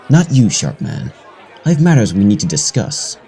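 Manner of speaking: ominous summons; single him out with foreboding. Acted. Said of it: "way to sound ominous".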